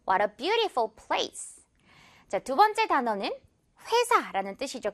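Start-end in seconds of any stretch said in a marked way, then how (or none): 0.1-1.6 very slow "What a beautiful place", BEAU stressed. Shown as a demonstration. Teacher modelling an example sentence, "beautiful" stressed on its first syllable. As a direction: lean on the start of "beautiful". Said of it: "뷰 부분의 강세".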